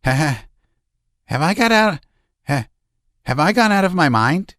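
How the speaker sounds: losing control, laughing wildly; shrill hysterical laughter. A narrator's reading. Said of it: "The laugh grew shriller and shriller".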